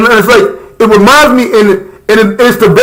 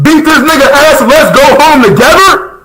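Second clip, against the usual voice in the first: higher mock Usopp yell, laughing through it; 5 semitones higher than usual. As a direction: hype up the friend with a laughing yell. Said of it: "when Usopp said".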